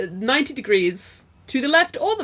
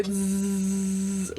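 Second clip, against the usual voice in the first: buzzing zzz; 2 semitones lower, 5 dB quieter than usual. Shown as a demonstration. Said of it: "Zs for buzzing or sleeping".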